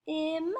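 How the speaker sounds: "T-im" split as a crisp T, pause, then IM; segmented word. Shown as a demonstration. Teacher helping pupils hear the middle sound, segmented. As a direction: sound out "T-im" in two separate pieces. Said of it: "let's segment that".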